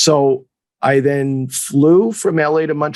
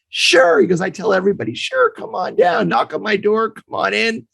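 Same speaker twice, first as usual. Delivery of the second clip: high, sing-song mock promise; mock breezy coach; 5 semitones higher than usual. Coach mocking his own easy invites, high breezy. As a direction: toss it off like an empty offer.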